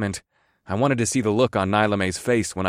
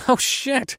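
snorting. Acted. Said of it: "I snorted".

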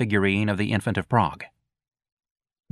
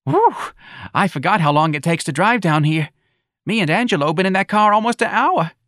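higher, louder New Orleans matron; fussy old mother; 10 semitones higher, 4 dB louder than usual. Acted. Missus Riley complaining to Santa about the drive, fussy.

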